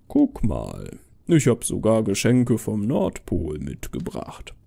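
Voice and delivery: low Santa voice with big swoops; Santa insisting he's real. Acted. Santa convincing a doubting girl, jolly and low. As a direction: coax the child in a deep Father Christmas voice.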